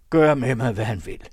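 high, loud, urgent poacher; bargaining poacher. Acted. (højlydt, indtrængende krybskytte)

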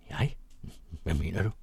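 put-on young man mildly sulky to his friend; somewhat sullen. A narrator's reading. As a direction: brush off the question, mildly put out. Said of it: "sagde han noget mut".

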